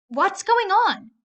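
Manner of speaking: high, loud and slow, thrown off; startled bully. Acted. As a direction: she can't believe he's smiling.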